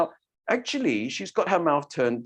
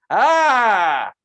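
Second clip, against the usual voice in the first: big open ah; 6 semitones higher, 7 dB louder than usual. Shown as a demonstration. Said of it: "what if we had a big mouth like that".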